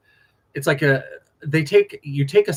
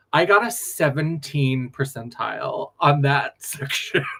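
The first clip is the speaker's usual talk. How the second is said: laughing. Real, not acted. Laughing at her own bad score.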